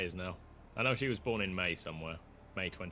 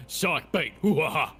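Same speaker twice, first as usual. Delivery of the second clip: Shark Bite, hoo ha ha, loud and high; louder, higher mock laugh; 6 semitones higher, 10 dB louder than usual.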